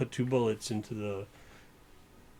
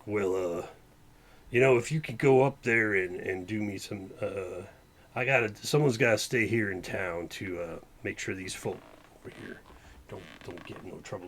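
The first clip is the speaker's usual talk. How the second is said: sheriff voice. Acted. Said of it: "it'll be the sheriff for now".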